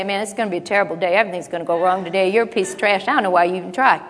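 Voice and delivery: fast, low, dismissive mock pessimism; mock gloomy talk. Preacher parodying the harsh way we talk to ourselves. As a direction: rattle off the put-downs half-joking. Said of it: "he would not come up to you and say".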